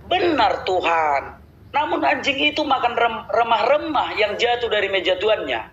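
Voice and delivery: high pleading woman. Acted. Voicing the woman's reply.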